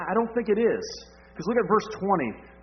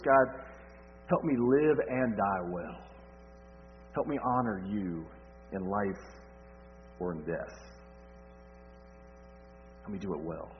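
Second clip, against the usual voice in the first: hushed prayer; 7 semitones lower, 8 dB quieter than usual. Retold or imitated. Paul's prayer voiced, fading.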